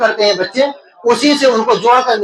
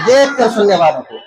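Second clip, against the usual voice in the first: repeated answer said clearly; 2 semitones lower than usual. Real, not acted. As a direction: say it again clearly for the teacher. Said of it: "کس کو؟".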